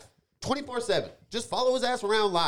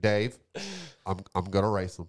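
quoting the bit; 9 semitones lower, 5 dB quieter than usual. Retold or imitated. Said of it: "he's like".

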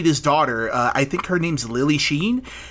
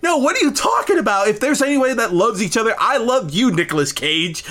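mock earnest quote; 4 semitones higher than usual. Acting out Pascal declaring his love.

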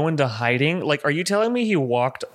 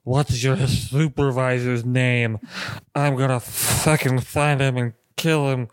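imitating drunk rant; slower than usual. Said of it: "He's like".

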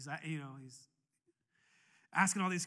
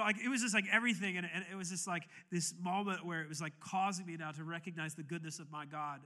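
normal talking voice

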